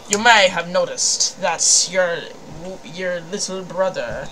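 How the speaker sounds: muddled Scottish-Southern blend; Doctor Quark. Acted. Doctor addressing the player, loose Scottish-Southern accent. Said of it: "Scottish and Southern".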